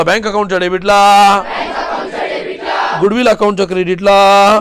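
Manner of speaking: loud classroom chant; loud recitation. Shown as a demonstration. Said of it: "जोरात बोला".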